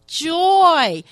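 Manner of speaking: joy rings out high and loud; joyful burst. Real, not acted. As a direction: lift the word joy up, beaming. Preacher proclaiming joy.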